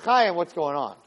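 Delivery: calmed-down parental question; anger dropped. Acted. Parent whose anger fell after saying my son, calmed down. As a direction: drop from yelling to an everyday voice. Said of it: "the anger level and the voice level comes down".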